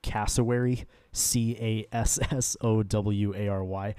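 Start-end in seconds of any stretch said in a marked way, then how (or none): 1.1-3.9 spelling it out slowly. Shown as a demonstration. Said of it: "for anyone that's curious".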